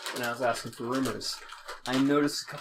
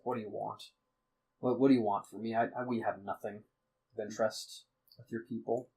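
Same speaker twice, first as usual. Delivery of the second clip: depressed father; 3 dB quieter, faster than usual. Acted. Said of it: "he's been in depression".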